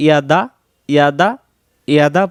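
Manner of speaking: ইয়াদা with the a clipped short; wrong short ইয়াদা; alif dropped. Shown as a demonstration. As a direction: say ইয়াদা quickly, no stretch. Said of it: "জবরের পর আলিফটা উচ্চারণ হলো না".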